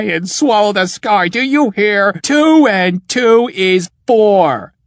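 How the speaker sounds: slow, rising furious insistence; raging. Acted. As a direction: build from hard to shouting. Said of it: "Truro fell into a rage".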